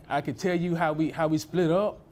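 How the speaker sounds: talking with gum in mouth; chewing gum. Real, not acted. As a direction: speak around a wad of gum. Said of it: "didn't even realize you had gum in your mouth".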